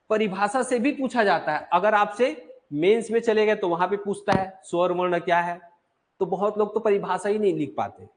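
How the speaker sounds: ordinary talk, nothing marked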